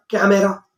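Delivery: "camera" said the common Indian way; common Indian pronunciation. Shown as a demonstration. Teacher asking learners how they pronounce it, common Indian "camera". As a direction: give "camera" as many in India say it. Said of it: "most of the people I heard that they pronounce like".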